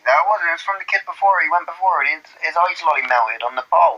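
mock protest. Acted Bristol argument defending Shereese.

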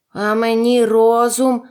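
slow, loud, mildly tearful wail; sobbing. A narrator's reading. Scarecrow wanting his brains, mildly tearful. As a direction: wail it slowly with a touch of tears. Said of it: "схлипнув Страшило".

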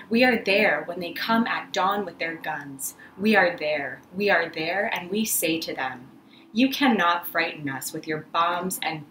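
measured, rising and falling spoken-word delivery; poem recitation. Acted. Poet reading a labor poem to the Sunday arts audience, declaiming. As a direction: declaim it like a rally poem for workers.

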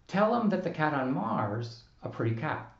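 "Mars a" with "is" left out entirely; is dropped. Shown as a demonstration. Lecturer demonstrating the impossible contraction, deliberately wrong. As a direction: drop "is" completely after "Mars". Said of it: "we can't say".

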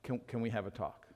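soft, low humble ask; meek wife asking softly; humble request. Retold or imitated. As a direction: mimic the wife asking gently. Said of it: "she's in a humble way".

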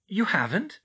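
high-pitched surprised question. A narrator's reading. Mother to elf who never saw such a stove, surprised. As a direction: ask in mild astonishment. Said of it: "Emma said in surprise".

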